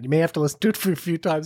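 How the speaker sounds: ordinary delivery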